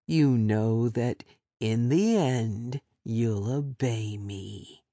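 lightly voiced captor, patient threat; calm menacing captor.

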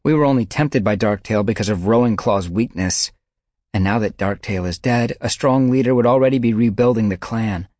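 angry she-cat arguing; heated argument. A narrator's reading. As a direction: push the point hard.

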